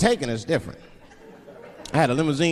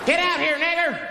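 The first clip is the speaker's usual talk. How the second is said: high-pitched hostile holler; menacing yell; 12 semitones higher than usual. Acted. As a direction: yell out a threat from outside. Hooded men yelling at caller.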